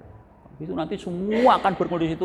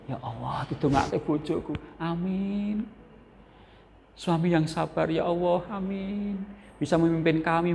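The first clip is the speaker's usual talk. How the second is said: wife's soft prayer; 5 dB quieter than usual. Retold or imitated. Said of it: "istri yang bergantian membaca".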